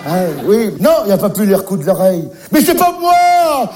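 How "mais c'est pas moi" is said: high, slow, drawn-out denial; whiny protest. Acted. Babysitter denying blame to the mother on the phone, high whine. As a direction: plead innocence in a high whine. Defending himself, high pitched.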